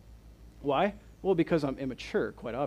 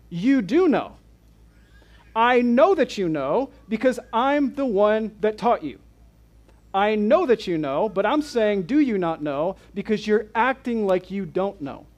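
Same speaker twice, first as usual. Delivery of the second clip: a firm, louder scolding, knowing better; pointed rebuke; 4 semitones higher, 5 dB louder than usual. Retold or imitated. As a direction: lean into it like a teacher who taught them. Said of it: "he's saying".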